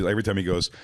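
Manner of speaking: usual speaking voice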